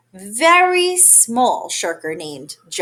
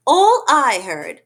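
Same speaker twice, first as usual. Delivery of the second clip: snapped; 3 semitones higher, slower than usual. Acted. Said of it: "snapped the big kangaroo".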